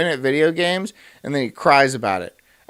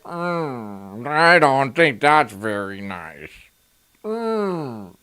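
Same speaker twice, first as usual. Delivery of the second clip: slow, put-on disapproving voice; mock a prim objector, drawn out; Piers Morgan; 2 semitones lower, much slower than usual. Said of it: "go ahead, sit there and be like".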